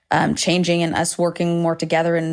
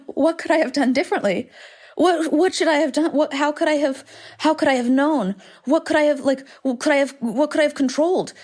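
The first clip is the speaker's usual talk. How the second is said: much higher, whining questions; self-pitying whine; 8 semitones higher than usual. Retold or imitated. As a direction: wail it like you feel sorry for yourself. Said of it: "the emotion was sadness".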